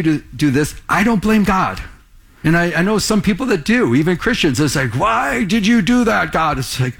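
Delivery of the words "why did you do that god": higher-pitched mock protest to God; imitated complaint. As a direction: act out someone blaming God. Voicing people who blame God.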